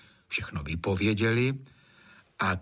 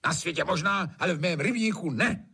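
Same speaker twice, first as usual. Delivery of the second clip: curt snap; 7 semitones higher than usual. Acted. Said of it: "odsekl Trautenberg".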